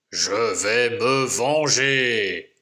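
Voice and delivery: low, slow growled threat. Acted. Lumberjack growling his revenge, low and slow. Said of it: "grogne le bûcheron".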